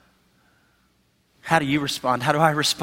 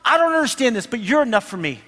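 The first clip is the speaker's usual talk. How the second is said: higher, pleading prayer to God; earnest prayer; 6 semitones higher than usual. Pretend. Struggling believer praying to God, higher and pleading. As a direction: plead your faith upward. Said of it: "they pull in and just say".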